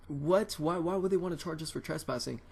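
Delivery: high, startled questioning; acted-out disbelief. Kid protesting a trespassing charge to dad, retold disbelief.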